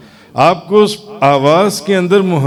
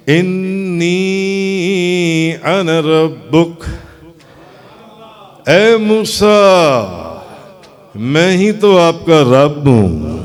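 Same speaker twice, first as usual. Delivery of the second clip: slow solemn divine voice, drawn out; voice from the tree; slower than usual. Acted. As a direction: speak each word slowly as a majestic call. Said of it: "درخت کے اندر سے آواز آ رہی ہے". (درخت سے آتی پُرجلال آہستہ آواز)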